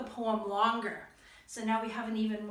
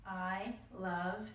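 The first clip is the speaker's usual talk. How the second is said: tender mom; 4 semitones lower, 5 dB quieter, much slower than usual. Acted. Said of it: "what the mom is saying".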